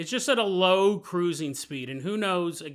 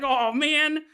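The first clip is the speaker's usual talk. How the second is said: heartbroken sigh; 8 semitones higher, 5 dB louder than usual. Retold or imitated. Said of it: "He's like".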